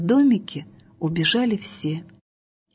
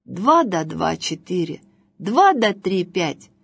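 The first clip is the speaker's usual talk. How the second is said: mock teacher. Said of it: "урок арифметики".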